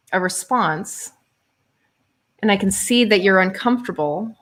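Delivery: sincere and softening toward the end. Shown as a demonstration. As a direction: say it gently, meaning every word. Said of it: "But it's really like".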